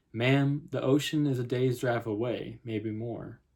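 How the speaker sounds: lightly voiced Southern policeman; a hint of Southern lawman; Southern accent. Policeman doubting the mother's story, light Southern accent. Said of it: "if I have a terrible Southern accent".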